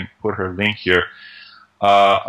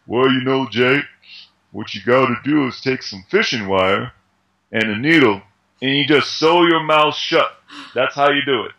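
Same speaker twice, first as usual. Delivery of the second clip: loose, half-hearted Sylvester Stallone voice; a rough stab at Stallone, not really his accent; Stallone impression. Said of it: "I can't do his accent".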